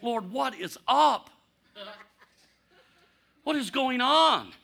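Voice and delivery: pleading prayer. Retold or imitated. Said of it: "sometimes God can be just like that".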